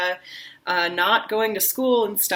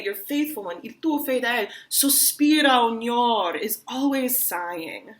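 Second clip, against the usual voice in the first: sighing lover; 3 semitones higher than usual. Shown as a demonstration. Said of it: "I'm always sad and sighing".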